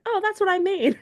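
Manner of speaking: high mock grandma backpedalling; imitating grandma. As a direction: squeak it out like a caught-out granny. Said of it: "She's like".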